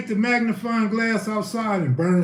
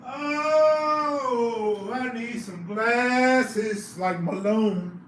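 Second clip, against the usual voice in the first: high slow voice; 5 semitones higher, much slower than usual. Acted.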